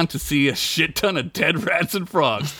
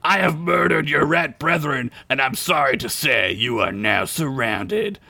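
booming frog voice. Acted. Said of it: "a booming frog voice".

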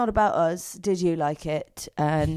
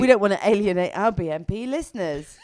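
laughing shout; 2 semitones higher than usual. Real, not acted.

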